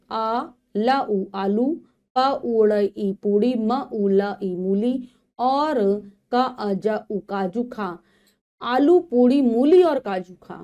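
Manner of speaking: slow syllable blending, then the sentence; phonics reading aloud. Shown as a demonstration. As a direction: sound out each letter for young learners. Sounds out words then reads sentences.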